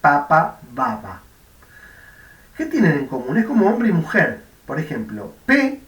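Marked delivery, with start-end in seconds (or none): 0.0-0.6 "papa" with a crisp voiceless p, lips popping open; "papa" said as a textbook example with a sharp p. Shown as a demonstration. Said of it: "P de B". 0.7-1.2 "baba" set against papa, voiced all through. Shown as a demonstration. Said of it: "P de B".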